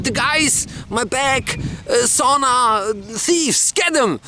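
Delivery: high, halting panic in bursts; acted breathless urgency, grasping for words; frantic victim. Robbed man explains in panic.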